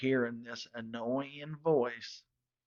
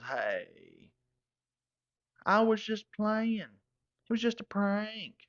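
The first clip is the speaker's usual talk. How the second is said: chuckling Earl; 3 dB quieter than usual. Retold or imitated. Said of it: "He starts chuckling and goes".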